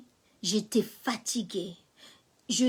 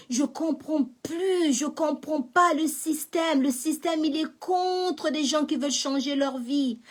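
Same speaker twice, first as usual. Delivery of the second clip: crying out; 4 semitones higher than usual. Retold or imitated. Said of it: "Je commence à crier".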